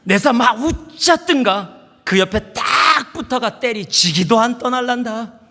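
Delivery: high, loud, emphatic Gyeongsang accent; exaggerated imitation Gyeongsang accent, stretched out; Gyeongsang dialect. Shown as a demonstration. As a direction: belt out the favorite line in Gyeongsang dialect. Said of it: "바로 요 부분이에요".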